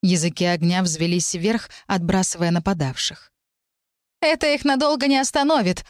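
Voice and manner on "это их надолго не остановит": tense, high-pitched snarl; growled warning. A narrator's reading. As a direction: snap a warning at her allies. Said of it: "рыкнула Вариана". (напряжённый высокий рык)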